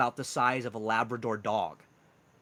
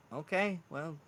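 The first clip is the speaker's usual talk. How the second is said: high Welsh voice, building louder; Welsh accent; 8 semitones higher, 6 dB louder, faster than usual. Acted. Mushroom man offers to mind the sugar glider, high Welsh accent. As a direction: agree hesitantly, then ask eagerly in Welsh accent. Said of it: "He has this harsh Welsh accent".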